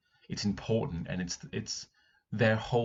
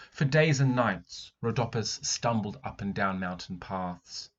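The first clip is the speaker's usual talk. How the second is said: dramatic reading. Acted. Teacher reading the story aloud to the class. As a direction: read it like a drama.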